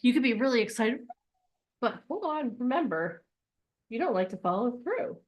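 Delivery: the elephant subconscious reminding the audience, soft and knowing. Retold or imitated. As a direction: speak like an all-remembering elephant. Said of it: "This is our subconscious. He's like".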